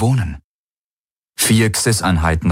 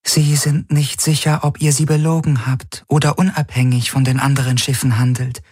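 raised, otherworldly alien voice; eerie alien Helix; 6 semitones higher than usual. Acted. The alien Helix warns Garland's crew, cool and otherworldly. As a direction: speak like a detached alien intelligence.

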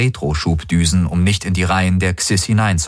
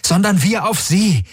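urgent call; 14 semitones higher than usual. Acted. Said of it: "rief Galen".

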